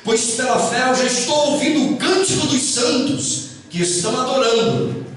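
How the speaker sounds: measured poem reading with pauses between phrases; solemn verse, dropping low at line ends; poem recitation. Acted.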